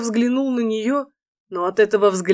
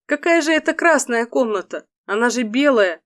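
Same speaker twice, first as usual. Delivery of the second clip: higher surprised female voice; heroine voice; 3 semitones higher than usual. Acted. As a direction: exclaim in a higher girlish voice. Фэй удивлена.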